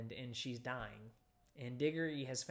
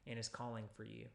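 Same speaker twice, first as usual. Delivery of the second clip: softer, hushed, just for her; private hush; 3 semitones lower, 6 dB quieter than usual. Acted. Martha quietly telling Mary in private. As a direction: say it low in private to her sister. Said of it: "saying to her in private".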